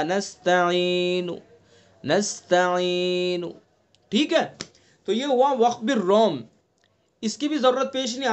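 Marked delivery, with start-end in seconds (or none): 0.0-3.4 نستعین with only a third of the final vowel, barely audible; waqf bil-rawm. Shown as a demonstration. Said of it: "نون کو ساکن نہیں کیا بلکہ تہائی حصہ ادا کیا".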